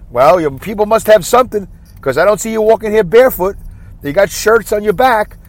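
mocking border agent. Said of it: "that's my impression of what goes on at the border".

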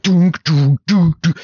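vocal sound effect of clunking in a shaft; imitated crawling thuds. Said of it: "You hear him, like".

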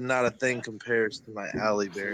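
mock dramatic quote. Mocks the read-out quote dramatically.

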